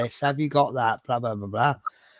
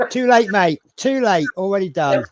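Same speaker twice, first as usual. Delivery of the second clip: higher, louder gloating; smug "too late"; 4 semitones higher, 5 dB louder than usual. Retold or imitated. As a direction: tease the fleeing cat. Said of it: "And I'm like".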